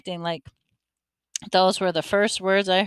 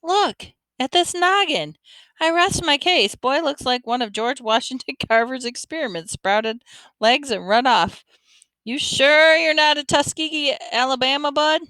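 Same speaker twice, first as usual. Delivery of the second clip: put-on teasing old man; 7 semitones higher than usual. A narrator's reading. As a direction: ham up the teasing with a high, mock-grand voice. Lefty teases boy's head.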